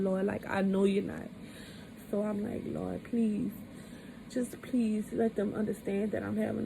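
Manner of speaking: quietly retold plea to God; hushed pleading prayer. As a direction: plead softly, under your voice. Retold desperate prayer during stroke.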